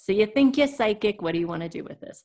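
lightly put-on New York accent; a quick, offhand New York accent. Shown as a demonstration. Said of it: "That was my kind of New York accent".

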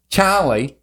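mimicked Australian vowels in the name; Lost-style Australian accent. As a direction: say it like an Australian TV character. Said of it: "'cause I picture from Lost".

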